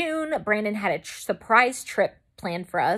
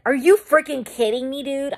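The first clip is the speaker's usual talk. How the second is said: high, loud burst of disbelief; retold outburst at a prank; incredulous; 6 semitones higher, 5 dB louder than usual. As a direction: demand it in exasperated disbelief. Retells finding the box empty.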